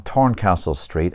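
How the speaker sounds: TORNCASTLE with a hard T for the TH; Dublin pronunciation. Real, not acted. Author reading his Dublin story slips into local pronunciation, hard T in Torncastle. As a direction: say Torncastle Dublin-style, opening on a plain T. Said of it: "right away now I said Torncastle Street".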